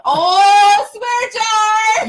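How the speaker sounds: high, loud gleeful call of swear jar; playful shout. Real, not acted. Catching a cohost swearing on stream, gleeful high shout. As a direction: pounce on the slip with a gleeful shout.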